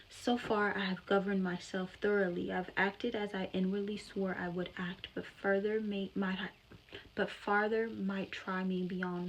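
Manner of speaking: loud, impassioned reading of a novel's speech; dramatic reading. Acted. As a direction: read it like a stage monologue, full voice.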